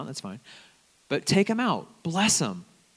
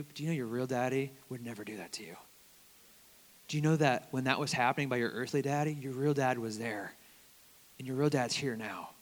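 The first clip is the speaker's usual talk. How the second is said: gentle reassurance; 5 dB quieter than usual. Retold or imitated. Comforting an abused student.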